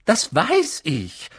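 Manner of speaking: clipped, irritated reply; irritated McGonagall. A narrator's reading. McGonagall answers Dumbledore, irritated. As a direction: cut him off, annoyed. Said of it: "sagte Professor McGonagall gereizt".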